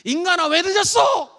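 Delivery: wife shouting at her husband who came home late; angry wife shout. Shown as a demonstration. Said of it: "아내가 얘기합니다".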